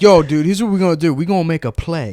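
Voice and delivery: rally them to an absurd plan; mock scheming hype. Players planning a prank together, hyped.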